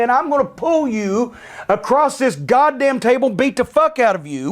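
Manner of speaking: tearing into him across the table; angry retort. Retold or imitated. Threatening to beat him up.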